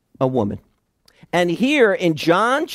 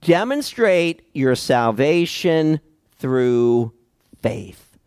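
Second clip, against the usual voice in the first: slow emphatic point; 2 semitones lower, slower than usual. Shown as a demonstration. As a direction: lay the first point out slowly, word by word. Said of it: "remind us of our first point".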